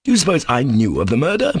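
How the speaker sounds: high, incredulous outburst; crying out. Acted. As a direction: fling the questions at him in disbelief. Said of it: "Ivan cried at last".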